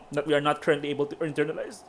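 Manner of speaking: words squeezed out while choking; choking on drink. Real, not acted. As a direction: fight through a drink gone down wrong. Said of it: "I'm choking on my drink".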